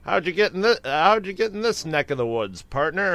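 mock cowboy greeting; cowboy accent. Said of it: "a skinny white guy with a ten-gallon hat".

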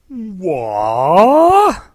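high, loud shocked yelp; shocked cry. Retold or imitated. Hal's shocked face imitated.

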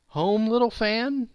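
high, slow questioning rise in pitch; surprised boy. A narrator's reading. Boy questioning his little sister's news, slow and surprised.

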